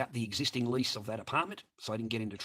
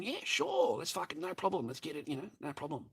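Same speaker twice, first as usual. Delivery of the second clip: sarcastic agreement; 4 semitones higher, 7 dB quieter than usual. Retold or imitated. Sarcastic agreement to her request.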